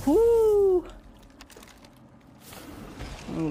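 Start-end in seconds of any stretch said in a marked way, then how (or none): 0.1-0.9 loud high whoop. Real, not acted. Escape cheer.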